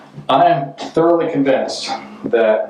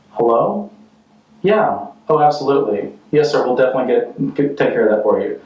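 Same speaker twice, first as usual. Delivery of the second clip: polite phone manner. Acted. Polite phone call amid acted fight.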